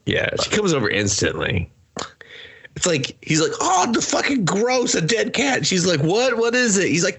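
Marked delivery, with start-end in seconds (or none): 3.6-5.7 high squeaky mock disgust; mock disgusted boyfriend. Retelling the boyfriend finding the cat, high mock squeal. Boyfriend's reaction, acted quote. 6.0-6.9 high, bright put-on girlfriend voice; mock curious girlfriend. Girlfriend rushing over to see, high mock voice.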